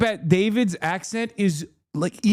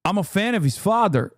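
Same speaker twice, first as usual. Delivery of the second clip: attempted Patrick accent; 3 semitones lower than usual. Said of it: "I can't do his accent".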